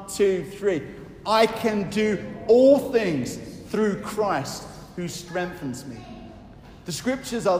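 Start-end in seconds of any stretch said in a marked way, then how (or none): 1.3-6.0 slow recitation together. Shown as a demonstration. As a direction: recite it slowly with the people. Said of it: "Let's say that together".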